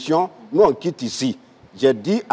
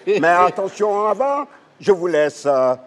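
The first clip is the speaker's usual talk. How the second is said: pilot announcement. Acted. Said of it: "le capitaine Gou à bord".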